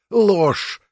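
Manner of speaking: high, loud furious outburst; furious shout. A narrator's reading. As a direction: snap out the accusation in rage. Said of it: "Глаза колдуньи полыхнули гневом".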